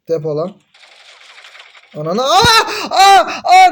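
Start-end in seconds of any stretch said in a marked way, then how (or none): 2.2-3.7 sharp high screams, much louder; startled screams. Real, not acted. Gamer screaming as he gets shot. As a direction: yelp in shock at getting shot. Player killed suddenly in game.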